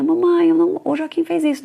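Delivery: a small daughter protesting her innocence; little girl tattling. Retold or imitated. Daughter telling mom her brother did it, high little-girl whine.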